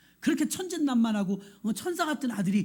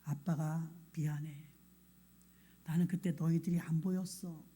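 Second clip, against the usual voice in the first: tender apology; 3 semitones lower, 4 dB quieter than usual. Retold or imitated. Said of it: "기도하는 마음으로 아이한테 고백했대요".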